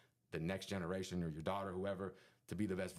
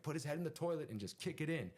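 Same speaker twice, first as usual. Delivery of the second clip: raised, high-pitched urging; mock egging-on; 8 semitones higher than usual. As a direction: act out a rival egging on his crew. Acting rival urging friends on.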